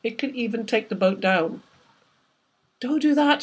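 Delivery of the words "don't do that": higher, raised shout stressing do. A narrator's reading. Thomas Clayson stopping Nyssa from cutting the line, shouting. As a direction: stop him with a sharp call. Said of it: "shouted Thomas Clayson".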